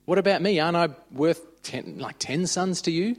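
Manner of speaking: a hint of a wounded husband asking for credit; pleading husband. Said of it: "All he said to her was".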